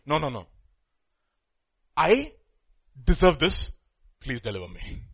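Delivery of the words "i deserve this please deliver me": humble confession. Shown as a demonstration. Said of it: "There's a lif-, difference".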